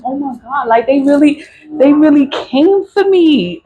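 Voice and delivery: high-pitched stunned realization, starting hushed; retold disbelief. Realizing her family came for her, high disbelief.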